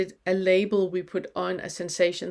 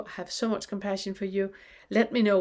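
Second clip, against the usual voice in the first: normal talking voice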